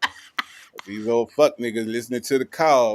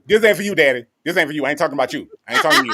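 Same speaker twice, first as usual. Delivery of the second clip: playful brush-off; 3 semitones higher, 4 dB louder, much faster than usual. Pretend. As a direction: wave Daddy off, half laughing. Telling Daddy it's not for him.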